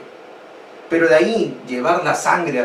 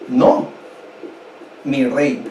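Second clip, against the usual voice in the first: dramatic servant; much slower than usual. Acted. Servant gravely tells the king: slow, weighty reveal. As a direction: draw out es una revolución with gravity. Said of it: "su súbdito le dice".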